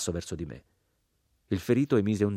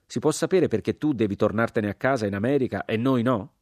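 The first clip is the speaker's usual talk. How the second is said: loud, higher demanding question; indignant outcry; 4 semitones higher, 7 dB louder than usual. Acted. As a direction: hammer the unfairness home. Sergeant continues his outburst.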